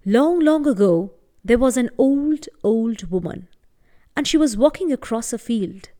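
gentle storytelling voice; story narration. A narrator's reading. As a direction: tell it like a bedtime tale. Storyteller narrating a folk tale.

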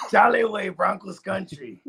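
lightly put-on vato accent; mock vato. Host keeps up the catchphrase bit, light vato voice. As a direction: draw the slogan out like a vato. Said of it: "do it like a vato first".

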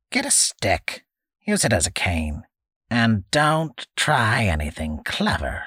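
put-on creaky old man, bossy; a gruff hermit giving orders; old man's orders.

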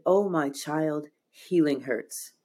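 slow, lightly voiced wise spirit; gently drawn-out words from a guiding voice. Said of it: "This voice said".

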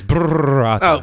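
"burrata" opening on a long shivery brrr; "burrata" said as brrr-ata, shivering; shivery pun. Acted. Pun on cold cheese, brr.

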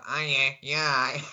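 slow, nasal Stoke-ish drawl through one nostril; a slow demo of sounding nasal, like through one nostril. Shown as a demonstration. Podcast host to co-host, showing how he sounds: slow nasal drawl. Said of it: "so I sound like".

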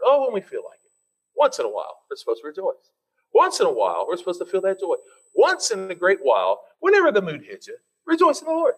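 sarcastic lilt, rising toward a high mock exclamation; sarcastic sing-song mockery; mock sarcasm. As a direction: parody a lukewarm believer. Mocking the once-in-a-while view.

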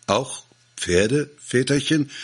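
timid question rising high; worried, rising plea; anxious. A narrator's reading. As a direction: ask fearfully whether "Pferde" too. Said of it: "fragten ängstlich die Bauern".

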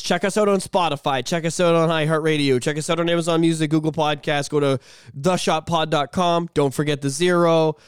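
reading the promo blurb aloud. Retold or imitated. Podcaster quoting his own promo post as an ad read. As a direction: rattle off the plugs like an ad. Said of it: "It was".

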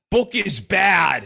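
slow, stomping "Book is bad" in a lightly voiced tantrum; mock toddler scream. Co-host teasing Jeffrey as a child raging at books, slow mock tantrum. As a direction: drag it out like a cranky child, only half-yelled. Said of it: "a younger Jeffrey screaming".

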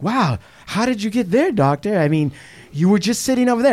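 put-on wonder; mock amazement. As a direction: act amazed, as if hypnotized. Acting feigned amazement at seeing double.

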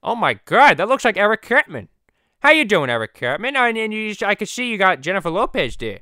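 high, loud, astonished cartoon voice; Stewie. Stewie greeting Eric Cartman, excited cartoon voice. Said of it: "the Stewie and Peter podcast".

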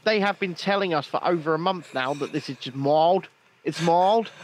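put-on South African accent slipping into Australian; South African attempt, Australian-sounding. Co-host argues Omicron is mild, wobbly South African accent. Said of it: "No, that's Australian, mate".

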